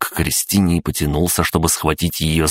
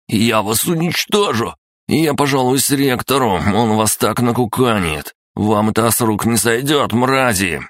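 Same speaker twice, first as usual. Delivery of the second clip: только что сломали руку, визгливо; угрожает сквозь боль, высоко; стон от боли; 7 semitones higher than usual. Acted. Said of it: "прижал к груди сломанную руку и простонал". (со стоном от сломанной руки)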